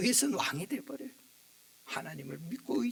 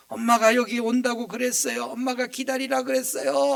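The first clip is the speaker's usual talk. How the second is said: voicing the child; 4 semitones higher, 9 dB louder than usual. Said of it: "뭐라고 합니까?".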